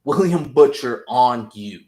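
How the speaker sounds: imitated furious villain; mock menacing Homelander. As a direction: threaten the son who lied. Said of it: "he goes".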